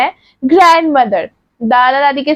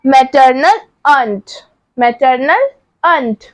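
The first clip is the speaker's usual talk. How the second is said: slow clear repeat; 2 semitones lower, slower than usual. Shown as a demonstration. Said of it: "और मामी को".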